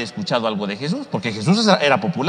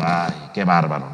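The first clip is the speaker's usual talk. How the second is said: mock dismay; 8 semitones lower than usual. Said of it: "es así como diciendo".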